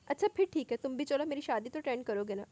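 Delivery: innocently. Acted. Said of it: "वो मासूमियत से बोली".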